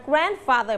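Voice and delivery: "grandfather" with GRAND stressed; stress on first syllable. Shown as a demonstration. Teacher shows pupils the stressed syllable, stress on GRAND in "grandfather". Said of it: "หนึ่งนั่นเอง ก็คือคำว่า grand".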